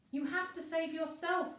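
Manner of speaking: high, loud pleading scream. A narrator's reading. Virgo screaming at Elliot to save himself, desperate. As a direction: beg him to go, at full voice. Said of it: "Virgo screamed again".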